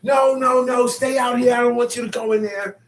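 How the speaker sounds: put-on high, loud child's plea; a little girl yelling no at her grandma; child's shout. Little girl shouting at her grandma not to go in.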